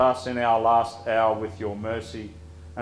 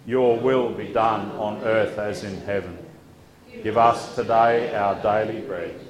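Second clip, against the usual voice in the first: group recitation. Acted. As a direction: recite together with the congregation. Congregation prays Lord's Prayer aloud.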